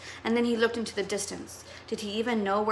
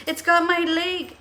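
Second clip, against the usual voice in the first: higher, louder, slow scream; screaming in pain; 7 semitones higher, 6 dB louder, slower than usual. Acted. Boy caught by the shark, screaming in terror. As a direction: cry out as the shark bites. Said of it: "Chet screamed".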